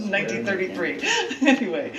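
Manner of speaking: fast, still giggling while restarting; chuckling title announcement; laughing. Real, not acted. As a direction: push on through leftover laughter. Regaining composure after laughing.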